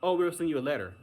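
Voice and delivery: high, bright mock customer-service voice; brushing off a caller in a chirpy high voice; dismissive agent. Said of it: "the lady goes".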